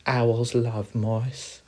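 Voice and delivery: high, loud, slow hamster voice; teasing hamster. Acted. Hamster answering the mouse, high and drawn-out. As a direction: draw it out pointedly.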